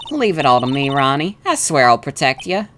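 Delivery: lightly southern reassuring wife; sweet southern protector; southern accent. Acted. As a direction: soothe him in a southern lilt. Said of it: "a southern accent for her".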